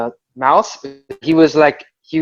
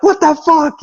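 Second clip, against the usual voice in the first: high-pitched imitated outcry; retold disbelief; 11 semitones higher than usual. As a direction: replay your shocked protest, pitched up. Reacting to fight on his car.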